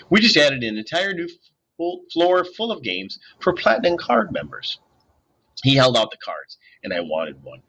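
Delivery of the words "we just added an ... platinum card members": smooth salesman. A narrator's reading. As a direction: draw it out, tempting. Bellhop tempting them.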